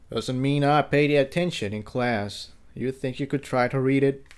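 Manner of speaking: lightly voiced stallion, hushed in wonder; Jigsaw. Jigsaw asking Tiptoe about the ruins, softly hushed.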